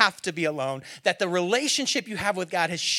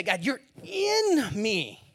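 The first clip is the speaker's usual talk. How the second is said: slow tender prayer; 4 semitones higher, much slower than usual. Acted. Slow intimate prayer line.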